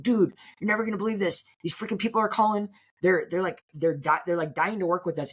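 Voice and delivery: high-pitched imitation of an excited friend; freaking out. Friend phoning about the flood of callers, freaking out. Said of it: "like, freaking out".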